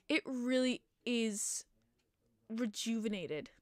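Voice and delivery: slow words through a yawn. Real, not acted. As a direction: stretch it out mid-yawn. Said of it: "I'm yawning".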